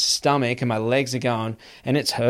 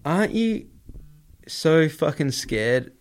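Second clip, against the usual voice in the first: mock incredulous question. People asking the adventurer about nature, mock incredulous. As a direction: imitate a baffled questioner, drawing it out.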